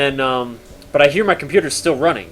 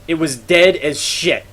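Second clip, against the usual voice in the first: ordinary talk, nothing marked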